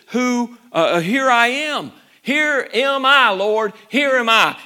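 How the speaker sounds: volunteer proudly; preacher recalling Moses' eager answer; eager Moses. Retold or imitated. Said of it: "a while ago he says".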